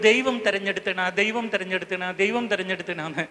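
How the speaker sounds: low, soft repeated refrain; mimicked refrain. Mimics what people keep saying. (താഴ്ന്ന ശബ്ദത്തിൽ അനുകരണം)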